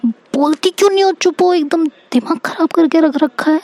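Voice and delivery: exasperated scolding. Retold or imitated. Bhabhi demands an answer after a silence, high-pitched exasperated scolding. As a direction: imitate an exasperated sister-in-law demanding an answer.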